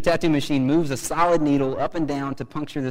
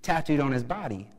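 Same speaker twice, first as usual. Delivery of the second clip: mildly incredulous retold question; astonished; 3 semitones higher than usual. Visitor questioning the tattoo artist, retold with mild astonishment. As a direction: ask it with a touch of astonishment. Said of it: "in astonishment".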